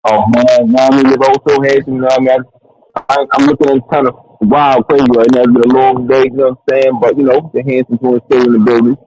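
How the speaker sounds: muffled, like through AirPods; muffled Bluetooth earbud mic; inside a fishbowl. Real, not acted. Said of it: "You sound like you're in the fishbowl".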